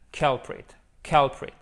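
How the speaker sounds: culprit said slowly, CUL stressed; teacher repeating culprit, CULprit; model pronunciation. Shown as a demonstration. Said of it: "Avec l'accentuation sur la première syllabe". (prononciation modèle de culprit)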